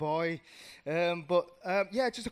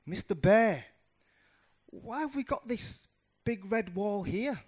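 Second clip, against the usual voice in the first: loud call, then higher question; curious little mouse; 5 semitones higher, 4 dB louder than usual. Acted. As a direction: call out and ask in childlike wonder. Mouse calls out to bear, asking.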